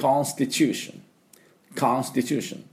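コンスティチューション as English "constitution", ST run together; native pronunciation. Shown as a demonstration. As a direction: say コンスティチューション with no U after the S. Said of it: "この音になります".

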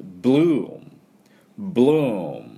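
BLOOM with a long oo into a hummed m; English pronunciation demo. Shown as a demonstration. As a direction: stretch "ブルーム" as English bloom, lips closed on m. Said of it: "最後、Mですから、口をしっかり閉じて".

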